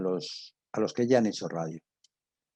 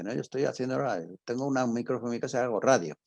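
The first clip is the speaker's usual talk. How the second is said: mocking quote; 4 semitones higher, faster than usual. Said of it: "todo el mundo dice".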